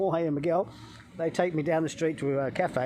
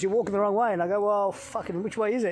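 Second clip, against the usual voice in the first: higher, louder retold back-and-forth; retold exasperated exchange; 5 semitones higher, 3 dB louder than usual. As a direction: act out a confused roadside exchange.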